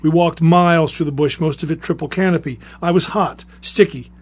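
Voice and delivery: measured, deliberate reading aloud; story reading with a strong attack on each new sentence; story narration. Acted. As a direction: read a grim war memoir in firm, spaced phrases. Reads a veteran's story aloud.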